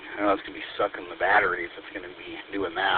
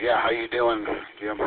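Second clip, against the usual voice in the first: talking through a mouthful of almonds; chewing while talking; mouth full. Real, not acted. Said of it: "I got a mouthful of almonds".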